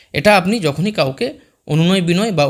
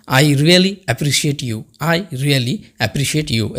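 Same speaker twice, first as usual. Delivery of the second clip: slow teaching demo; 3 semitones lower, much slower than usual. Shown as a demonstration. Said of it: "তখন আমরা তাকে বলতে পারি".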